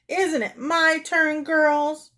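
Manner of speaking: high, slow pleading wail; drawn-out high whine. Acted. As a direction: appeal plaintively for support. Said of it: "she wailed".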